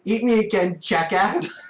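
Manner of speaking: mildly yelled challenge; mock defiant scream. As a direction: hurl the insult loudly, in character. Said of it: "She just stares at it and screams".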